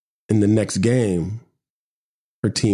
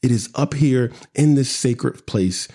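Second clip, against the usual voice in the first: measured poetry recital; poem reading. Acted. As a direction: read it like a spoken-word poem. Reads his poem aloud.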